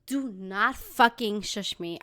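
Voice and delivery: slow, emphatic warning; stern warning. Acted. Speaker warning anyone who shushes her, stern. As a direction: spell out the warning slowly. Angry rant about being shushed.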